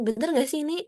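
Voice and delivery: double-check it; questioning, doubtful tone; checking doubtfully. Retold or imitated. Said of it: "tanya, kayak mastiin".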